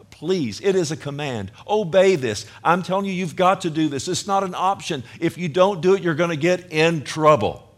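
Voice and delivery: preacher insisting the flock obey; urgent exhortation. Real, not acted. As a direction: drive the command home.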